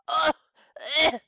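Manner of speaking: choking like a drowning man; sputtering, choking ugh sounds. A narrator's reading. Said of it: "choked Briggs like a drowning man".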